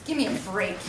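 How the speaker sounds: dropped back to a normal gruff voice. Acted. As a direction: fall out of the act and grumble. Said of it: "his voice came down a few octaves".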